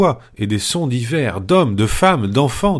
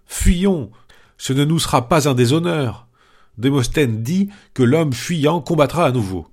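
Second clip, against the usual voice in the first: terrified flight cry; 5 semitones higher than usual. Acted. Panurge begging the crew to flee, terrified. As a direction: shriek Fuyons as if the ship is sinking. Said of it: "Panurge s'écria".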